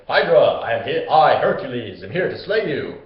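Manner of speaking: loud, proud challenge shouted into the canyon; heroic call. Retold or imitated. Hercules calls the Hydra from the canyon, loudly proud. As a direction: call out the monster like a swaggering hero.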